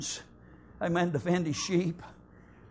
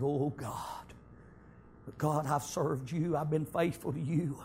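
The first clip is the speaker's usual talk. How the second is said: heartfelt prayer. Acted. David's prayer voiced.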